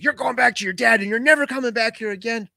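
mock maternal tirade; retold screaming mom. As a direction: lay down the law like a furious mom, without really screaming. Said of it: "She was screaming at me".

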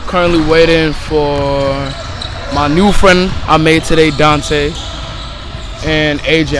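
loud over the noise of the gym; talking over noise. Real, not acted. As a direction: speak up so the camera catches it.

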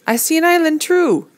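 high excited shout. A narrator's reading. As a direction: call out, thrilled.

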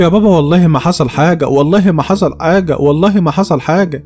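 desperate pleading. Acted. Daughter swearing innocence to her violent father, pleading.

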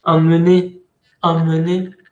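"emmener" with nasal first vowel; teacher drills "emmener". Shown as a demonstration. Teacher showing the exception, nasal em. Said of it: "tiene doble M, pero se pronuncia nasal".

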